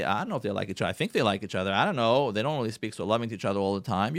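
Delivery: mild mock puzzlement about the parents; doubtful children. Children commenting on their parents' marriage, lightly doubtful. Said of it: "looking at their parents and say".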